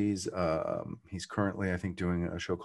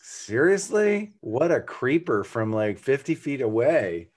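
mock disbelief; 4 semitones higher, 4 dB louder, slower than usual. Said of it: "I'm like".

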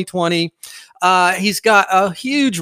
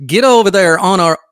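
put-on Southern accent, punched louder; 2 semitones higher, 5 dB louder than usual. Host voicing his trusted canine, put-on Southern accent. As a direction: voice the dog with a hammy Southern accent. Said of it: "Woody has a Southern accent".

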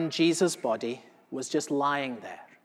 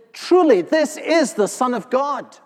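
much higher and louder, in awe; the guard's loud astonished outburst; astonished exclamation; 7 semitones higher, 7 dB louder than usual. Acted. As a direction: blurt it out in amazed wonder. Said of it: "was so astonished".

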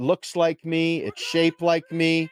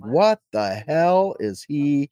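baffled onlooker; much slower than usual. Retold or imitated. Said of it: "it's like".

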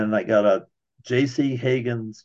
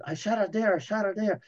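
amped up; 8 semitones higher, 5 dB quieter than usual. Retold or imitated. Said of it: "I'm amped up".

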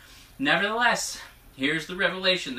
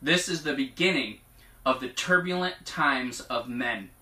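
prophetic proclamation. Acted. Relaying God's promise to the congregation, prophetic proclamation. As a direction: proclaim it as a solemn vow.

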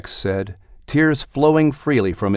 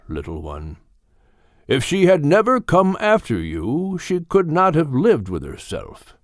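put-on wise old Gilliman. Gilliman comforts Max.

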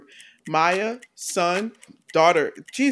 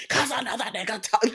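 laughing quote; 5 semitones higher, 4 dB quieter than usual. Retold or imitated. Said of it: "it was perfect".

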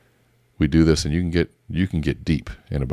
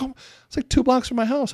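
casual. Retold or imitated. Acted casual reply, high voice.

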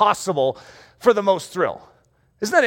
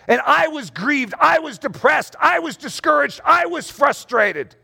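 mock complaining; 6 semitones higher than usual. Mimics most believers' list of woes.

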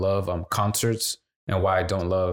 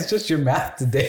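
laughing; 3 semitones higher than usual. Real, not acted. Laughing while explaining.

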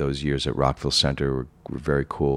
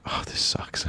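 muttered aside; 8 dB quieter than usual. Retold or imitated. Disappointed aside after poor first day.

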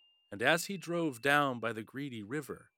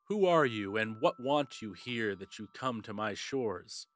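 stern king; 3 dB louder than usual. Acted. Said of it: "sternly he spoke aloud".

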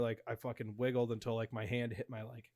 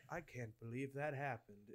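slow, softer stunned muttering; dazed disbelief; 10 dB quieter than usual. Acted. Lying in bed after the scare, dazed muttering. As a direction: mutter it slowly to yourself, dazed. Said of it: "I laid in bed and I was like".

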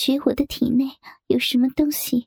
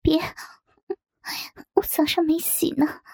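a touch of a whisper, bashful; shy whisper; 3 semitones higher than usual. A narrator's reading. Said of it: "我害羞地小声说".

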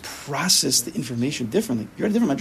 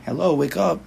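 neshama calling out; 5 semitones higher, 4 dB louder than usual. Acted. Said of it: "The seichel, the neshama, is saying".

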